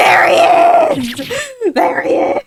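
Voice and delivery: high, laughing cheer; excited whooping. Real, not acted. Player spots the character appearing, excited high whoop.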